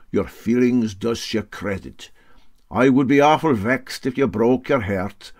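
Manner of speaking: mock sympathy with a sting; lightly voiced sly captain. Captain to riveter, lightly voiced sarcasm.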